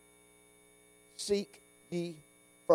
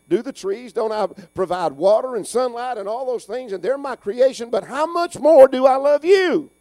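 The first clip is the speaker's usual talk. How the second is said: higher, louder, rising reassurance; voicing the Lord; 6 semitones higher, 6 dB louder than usual. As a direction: speak as God comforting his children. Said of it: "the Lord Jesus Christ on the Sermon on the Mount".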